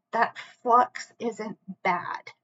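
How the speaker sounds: slow, breathy whisper. Real, not acted. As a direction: whisper it slowly and gently. Repeats line, first take whispered.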